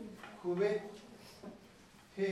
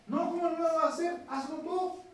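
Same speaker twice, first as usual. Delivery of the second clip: retold yell; 7 semitones higher than usual. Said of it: "le dice el hijo".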